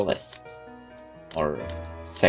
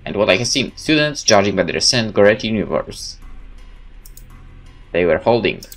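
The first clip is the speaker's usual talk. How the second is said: dramatic first-person game narration, louder than chat; story narration; 4 dB louder than usual. Acted. Player reading a game's story aloud, dramatic narration. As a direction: tell it like a dramatic tale.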